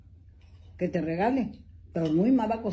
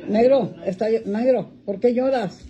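calling to crying dog; 7 dB louder than usual. Real, not acted. Dog starts whining.

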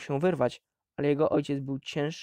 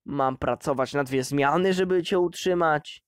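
growled; 4 dB louder than usual. Acted. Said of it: "warknął".

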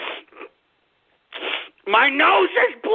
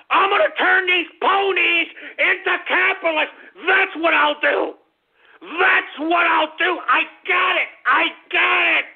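higher, rising excitement; triumphant announcement; 5 semitones higher than usual. Acted. Host proclaiming his new plan, triumphant. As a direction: proclaim it like a eureka.

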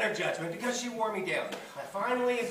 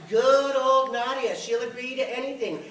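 loud, higher, drawn-out scorn; scornful; 5 semitones higher, 6 dB louder than usual. Acted. Mother complaining to her son about Nadia, scornful. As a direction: stretch the name out with mock praise. Mother sneers at absent relative.

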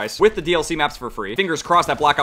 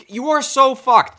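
gleeful taunt; 11 semitones higher, 7 dB louder, much slower than usual. Real, not acted. Taunting camping enemy player.

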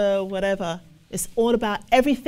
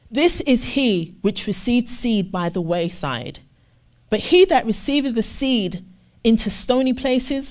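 scripture reading. Acted. Preacher reading the parable to the congregation, measured and deliberate. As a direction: read the verse out to the congregation.

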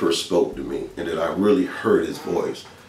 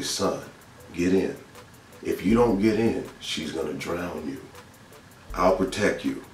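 spiritual voice; 5 dB quieter than usual. Retold or imitated. Spiritual voice guiding a small boy, soft and calm. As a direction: reassure a child quietly, letting endings drop. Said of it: "I heard this spiritual voice".

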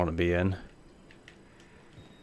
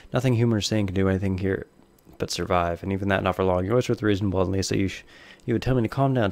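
lightly voiced game diary read; reading notes aloud.

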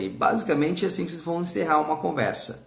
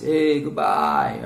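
loud, drawn-out mock goodbye; acted farewell; 5 dB louder, much slower than usual. Teacher acts a goodbye for never meeting again, loud and drawn out. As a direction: stretch it into a big farewell. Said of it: "Or nunca mais".

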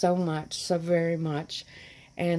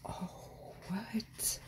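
whispered disbelief, rising at the end; stunned whisper; 2 semitones higher, 14 dB quieter than usual. Real, not acted. Vlogger seeing the last gift, stunned whisper.

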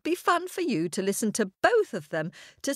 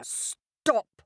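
lion; 3 semitones higher than usual. A narrator's reading. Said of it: "roared again for silence".

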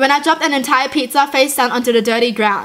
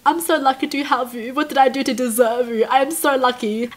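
tender to the dog; 4 dB quieter than usual. Retold or imitated. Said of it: "I'm just like".

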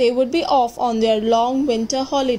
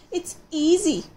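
cooing owl; 5 semitones higher than usual. Acted. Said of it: "she cooed".

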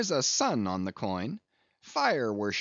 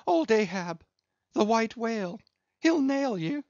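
louder, higher raving cry; high crazed warning; 9 semitones higher, 4 dB louder than usual. Acted. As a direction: cry out a wild prophecy.

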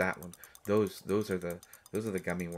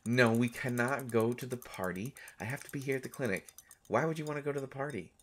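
higher, faster disbelieving no; incredulous refusal; 5 semitones higher than usual. Acted. Doctor refusing the party trip, incredulous and quick. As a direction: refuse it, baffled by the idea.

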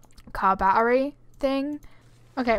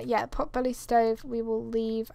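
hiccuping while talking; words broken by hiccups; 4 dB quieter than usual. Real, not acted. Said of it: "oh god, I do have the hiccups".

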